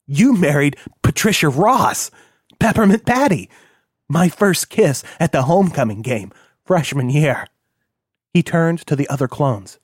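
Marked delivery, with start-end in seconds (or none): 0.1-7.5 gleeful recalling. Acted. Kilroy recalling his first kiss to the clones, gleeful. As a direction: savor the memory with glee.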